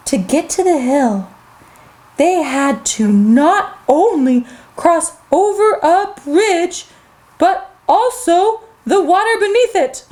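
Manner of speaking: slow, drawn-out storybook narration; storytelling to children. Acted. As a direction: tell it to small children, word by word.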